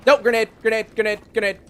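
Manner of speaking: loud, urgent alarm shout; grenade warning yell. Real, not acted. Grenade thrown, calls warning.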